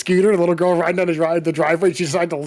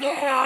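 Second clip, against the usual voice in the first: mock scream; 8 semitones higher, 4 dB quieter than usual. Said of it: "and he screamed".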